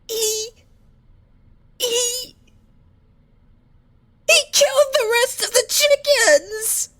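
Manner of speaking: rising to a high crying wail; howling sob. Acted. Fluttershy wails to the doctor about her chickens, high crying howl. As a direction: break into a sobbing howl. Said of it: "Her howl echoed around the room".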